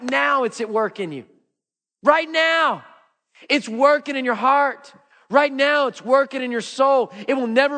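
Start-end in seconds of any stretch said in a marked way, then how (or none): 2.0-5.9 emphatic urging. Real, not acted. Preacher urging the congregation emphatically.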